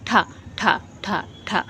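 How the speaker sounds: ठा said with the tongue curled back to the palate; ठा as a clear retroflex demo; retroflex tha demo. Shown as a demonstration. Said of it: "ठा word का use क-, उच्चारण करोगे".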